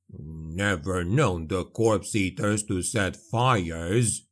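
slow low gruff dwarf; rumbling dwarf drawl; Gotrek voice. A narrator's reading. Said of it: "Gotrek said".

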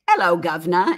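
lightly imitated British greeting with a dropped H; British accent. Quoting Kel's greeting at the door, mock British accent. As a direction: put on a touch of British accent. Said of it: "in her British accent".

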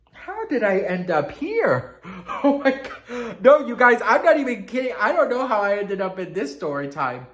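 loud, high, cracking up; helpless high-pitched laughing outburst; laughing in disbelief. Real, not acted. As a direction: exclaim through real laughter. Laughing at own digression.

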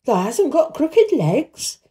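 slow, high, quavering question; hoarser quaver. A narrator's reading. Old gardener still doubting the boy, hoarse quaver. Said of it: "more hoarsely yet".

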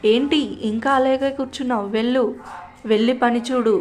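loud, sharp scolding; scolding mother. Acted. Mother scolding her daughter to get to work, loud.

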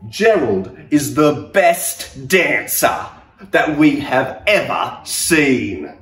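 loud amazed cheering; excited shout. Acted. Animals watching Gerald dance, loud amazed shouting. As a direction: call out in wonder. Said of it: "They shouted".

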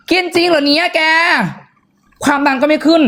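high, amazed disbelief; high-pitched wow, really. Real, not acted. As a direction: sound truly astonished. Amazed reaction to testimonial.

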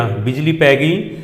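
ਬਿਜਲੀ ਪੈ ਗਈ drawn out slowly with ਪੈ leaned on; slow dictation repeat. Shown as a demonstration. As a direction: repeat ਬਿਜਲੀ ਪੈ ਗਈ slowly so the class can copy it.

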